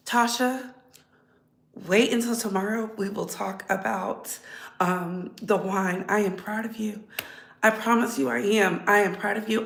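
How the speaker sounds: soft and quiet, fighting back tears; holding back tears. Real, not acted. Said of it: "I'm not gonna cry".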